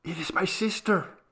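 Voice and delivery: put-on high, hushed little girl voice; a frightened child confiding; child's whisper. A narrator's reading. Maria telling mother about her sister, high and hushed. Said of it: "she whispered".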